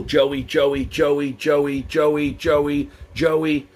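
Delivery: monotone, insistent repeated calling; nagging repetition, evenly spaced; name repeated over and over. Shown as a demonstration. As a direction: call the child's name on a loop. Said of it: "repeated a child's name over and over".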